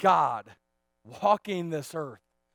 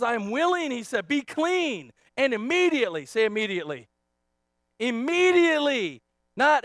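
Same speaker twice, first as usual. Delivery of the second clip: raised voice, punching the key words; emphatic preaching; 5 semitones higher, 8 dB louder than usual. Real, not acted. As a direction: proclaim it to the congregation.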